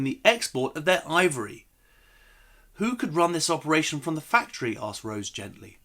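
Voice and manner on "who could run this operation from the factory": gentle. Acted. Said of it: "don't know if my acting was good enough".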